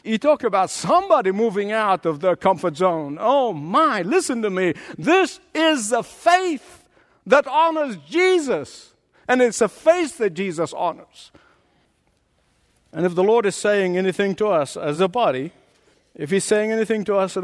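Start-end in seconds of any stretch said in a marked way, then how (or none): 5.0-11.3 slow, high, ringing proclamation; emphatic preaching. Real, not acted. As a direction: proclaim it slowly, landing each key word.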